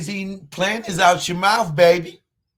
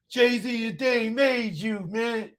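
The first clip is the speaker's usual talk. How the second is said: mocking sing-song; 5 semitones higher, slower than usual. Taunting a commenter on stream.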